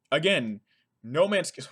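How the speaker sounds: breathless, gasping for air; running out of breath mid-line. Real, not acted. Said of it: "I ran out of breath".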